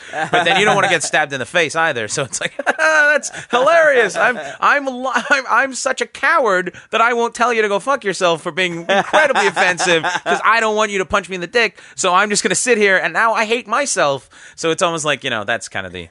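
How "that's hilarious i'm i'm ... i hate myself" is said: fake polite laugh.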